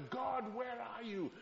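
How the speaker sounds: calling out high and slow, turning everywhere; desperate searching cry. Shown as a demonstration. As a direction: call for God like a man hunting in every corner. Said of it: "a man physically searching".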